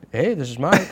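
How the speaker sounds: high, breezy guy answering the phone; casual phone greeting. Retold or imitated. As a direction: pop in as the guy on the line. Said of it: "and then you go".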